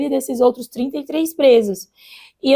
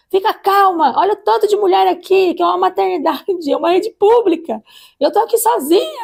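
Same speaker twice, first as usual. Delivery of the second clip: higher and louder imitated nurse; retold nurse telling off; 7 semitones higher, 4 dB louder than usual. Nurse to a screaming woman in the public maternity ward, higher louder imitation. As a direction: play the nurse telling her to calm down. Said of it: "ela falou pra ela".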